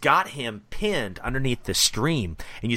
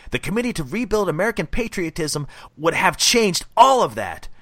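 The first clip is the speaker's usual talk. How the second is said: a lightly raised, ranting villain read; a mild hammed-up villain rant, a touch louder; villain monologue; 4 semitones higher, 4 dB louder than usual. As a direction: rant it like a fanatic hillbilly villain. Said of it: "read what he says".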